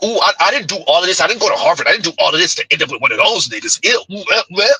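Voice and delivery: lightly voiced snobbish disgust, rushed; mock disgust. Host mimicking a woman above the relationship ghetto, mock disgust. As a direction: imitate someone recoiling, quick and dismissive.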